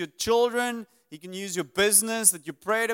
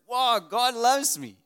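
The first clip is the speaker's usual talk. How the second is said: amazed wow; 6 semitones higher, 5 dB louder, slower than usual. Retold or imitated. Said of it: "He's like".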